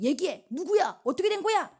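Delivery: rising, high-pitched interrogation; acted urgent demand. King demands Esther name the culprit, acted urgent questioning.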